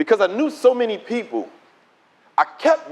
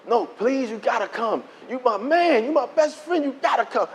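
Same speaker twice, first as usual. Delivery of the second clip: imitating a friend's insistent begging; mild mock pleading; 3 semitones higher, 3 dB quieter than usual. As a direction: coax and plead, piling up reasons. Friend begs him to come.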